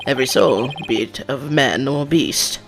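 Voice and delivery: prosecutor in a put-on British accent; measured, faux-British delivery; fake British accent. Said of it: "in a fake British accent".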